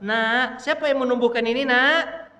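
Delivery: demonstrating a parent's eager quiz; father quizzing child. Shown as a demonstration. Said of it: "Ngajarin begitu, Pak".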